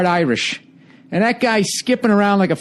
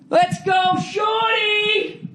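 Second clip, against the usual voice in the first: sing-song arena chant, higher; cheering; 13 semitones higher, 3 dB quieter, much slower than usual. Retold or imitated. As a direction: cheer the little guy on from the couch. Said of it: "I'm like".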